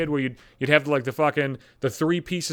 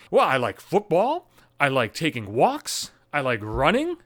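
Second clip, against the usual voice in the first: boring answer; slower than usual. Retold or imitated. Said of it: "And it's boring as shit".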